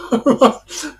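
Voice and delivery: chuckling through the warning; laughing. Real, not acted. Recalling jail rules to listeners, laughing. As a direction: laugh while you say it.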